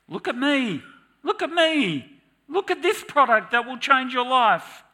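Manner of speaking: mock screaming. The world's ads screaming for attention, hammed-up loud yell. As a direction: shout like a pushy ad. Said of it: "are screaming at me".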